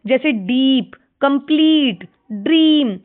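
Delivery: "डीप", "कंप्लीट", "ड्रीम" each with a held long ee; long ee examples. Shown as a demonstration. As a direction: model each word's long vowel. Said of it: "बड़ी ई की sound आ रही है".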